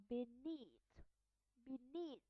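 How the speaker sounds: "beneath" ending on a voiceless TH; final TH. Shown as a demonstration. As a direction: stretch "beneath" out to an airy final TH. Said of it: "at the end of the word".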